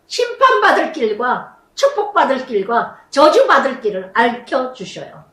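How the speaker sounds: rising, emphatic sermon cadence; impassioned pulpit delivery; fervent preaching. Real, not acted. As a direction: drive each phrase home to the congregation. Preaching at full force.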